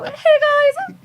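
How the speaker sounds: very high, loud, stretched-out awkward greeting; weird awkward voice. Retold or imitated. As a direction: ham up a bad stand-up opener, high and slow. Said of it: "default to this weird, awkward voice".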